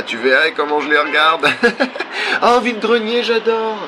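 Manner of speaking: high excited exclamations; squealing with delight. Acted. Excited reactions while running.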